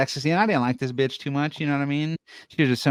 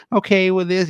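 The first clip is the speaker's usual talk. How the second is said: retold indifferent teacher; 9 semitones higher, 6 dB louder than usual. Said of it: "she didn't give a fuck".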